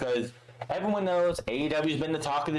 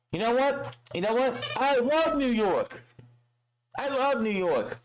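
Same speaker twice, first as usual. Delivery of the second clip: high, ringing imitation of a wrestler on the mic; mock crowd-pleasing proclamation; 10 semitones higher than usual. Wrestler addressing the New York crowd, mock exuberant. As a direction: proclaim it high, drawing out the love.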